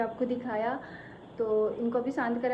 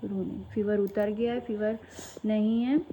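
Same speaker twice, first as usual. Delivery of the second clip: comforting mother; 2 semitones lower than usual. Real, not acted. Mother comforting crying child.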